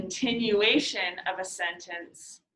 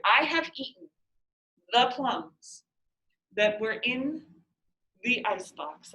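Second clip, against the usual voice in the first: pretentious poet; 3 semitones higher than usual. Shown as a demonstration. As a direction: beat poet reading with pauses. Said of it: "starting to sound like a beat poet".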